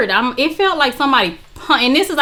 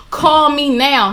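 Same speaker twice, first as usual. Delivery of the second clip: slow, emphatic command; urgent order; 2 semitones higher, slower than usual. Retold or imitated. Friend texting her to hang up with him, urgent. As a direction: space out each word insistently.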